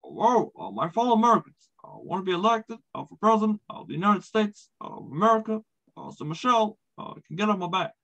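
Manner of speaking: lightly voiced Obama with measured speech pauses; stately, paused, presidential address; Barack Obama impression. Comic doing Obama on request, measured and presidential. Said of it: "let me hear, uh, Barack Obama".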